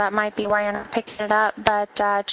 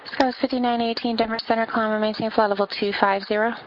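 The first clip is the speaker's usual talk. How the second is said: air traffic control radio. Acted. Controller reading clearances on frequency.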